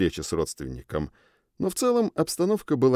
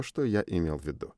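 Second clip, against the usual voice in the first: usual speaking voice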